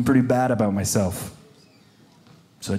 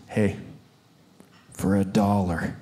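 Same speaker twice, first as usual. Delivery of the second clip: little voice; 4 semitones lower, 6 dB quieter, slower than usual. Retold or imitated. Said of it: "this little voice says".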